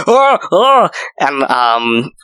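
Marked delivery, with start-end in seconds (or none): 0.1-0.9 startled yelp. Retold or imitated. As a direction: jump at a sudden scare. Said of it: "I was like".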